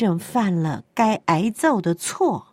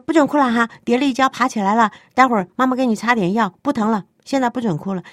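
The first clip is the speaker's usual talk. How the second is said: fast, raised mock soothing order; rushing the child to stop crying; lightly voiced impatient mother; hurried parent; 4 semitones higher, faster than usual. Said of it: "你就说".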